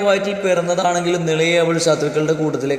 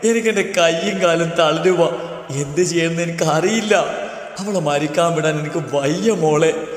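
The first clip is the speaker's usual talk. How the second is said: tearful pleading. Acted. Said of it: "പൊട്ടിക്കരഞ്ഞുകൊണ്ട് മീരയുടെ കാലിലേക്ക്".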